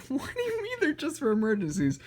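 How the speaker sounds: high-pitched, laughing disbelief; squeaky baffled protest; amused incredulity. Real, not acted. Incredulous reaction to the comic's line.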